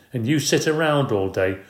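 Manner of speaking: wife yelling at her jobless husband. Acted. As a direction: jab at his idleness. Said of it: "yelling at Mister Payne".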